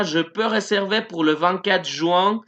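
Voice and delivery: slow, careful French sentence read out; slow model sentence. Shown as a demonstration. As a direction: read it slowly for learners. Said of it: "tenemos la última".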